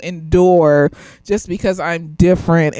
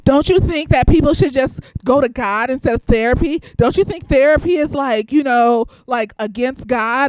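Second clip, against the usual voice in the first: lightly voiced preachy church lady; a hint of a pious, condescending questioner; mocking churchlady; 4 semitones higher than usual. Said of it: "this bitch gonna start talking".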